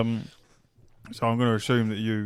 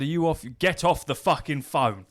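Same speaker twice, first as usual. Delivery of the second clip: higher, louder mock snap; retold telling-off; 5 semitones higher, 5 dB louder than usual. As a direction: bark it like you're fed up with him. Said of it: "And I said".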